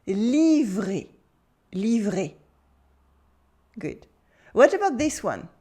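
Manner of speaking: usual speaking voice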